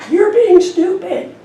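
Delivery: high, loud, slow echoing shout. Retold or imitated. The echo hurling the insult back, loud and slow. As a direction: throw it back like a canyon echo. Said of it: "the voice came back".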